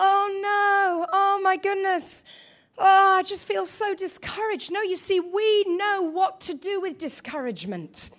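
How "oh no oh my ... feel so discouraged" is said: higher, whiny oh no with a sinking sigh; mock dismay. Believer reacting to bad news, mock deflated moan. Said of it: "the news comes and it's like".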